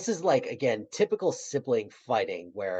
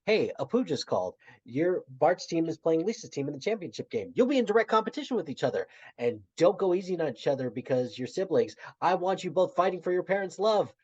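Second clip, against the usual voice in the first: excited Homer; 7 semitones higher, faster than usual. Retold or imitated. Homer voiced egging kids on.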